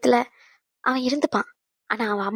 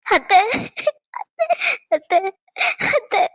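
calling out; 10 semitones higher, 3 dB louder, slower than usual. Acted. Calling for her aunt.

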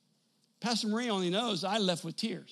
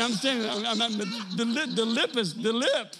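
laughing emotion; 4 semitones higher, 5 dB louder than usual. Real, not acted. Overcome recalling the gift.

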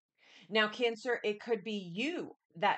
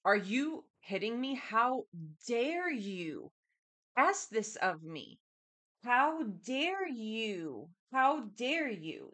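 indignant; slower than usual. Retold or imitated. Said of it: "Someone here is mind blown".

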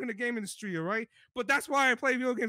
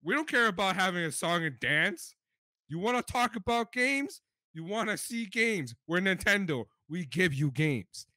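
mock Nintendo swagger; 6 semitones lower than usual. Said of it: "and they were like".

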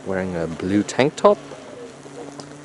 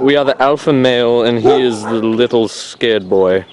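raised voice; 3 semitones higher, 9 dB louder than usual. Real, not acted. Narrator announcing over a barking dog, raised voice. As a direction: proclaim it loudly over the noise.

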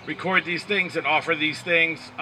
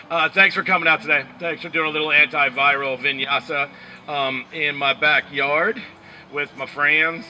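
Southern country drawl; 2 semitones lower than usual. Pretend. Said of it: "country drawl right there".

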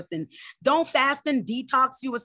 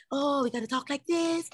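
mock prissy talk; 5 semitones higher, 3 dB quieter than usual. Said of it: "let the enemy try to".

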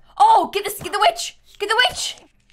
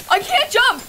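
louder, higher whine; whiny complaint; 4 semitones higher, 4 dB louder than usual. Real, not acted. Repeating complaint about jump.

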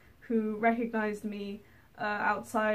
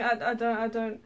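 flustered refusal. Retold or imitated. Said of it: "I instantly just start going".

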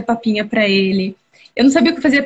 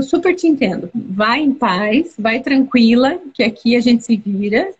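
kind boss; slower than usual. Retold or imitated. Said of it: "E ele falou".

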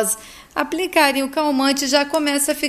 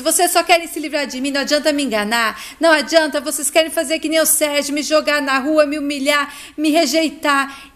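agitated accusing; 3 semitones higher, 3 dB louder than usual. Acted. Heloísa accuses her family of rejecting her, agitated. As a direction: rattle off the accusations.

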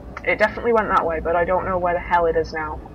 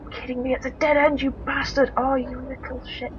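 higher-pitched frustrated cursing; pitched-up exasperation without shouting; exasperated; 4 semitones higher than usual. Real, not acted. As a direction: curse the dead end in a high, exasperated voice. Hits a dead end while fleeing.

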